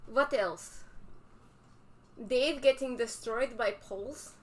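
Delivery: mock Russian accent, articles dropped. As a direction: ham up a Russian stereotype. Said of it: "they get a Russian accent".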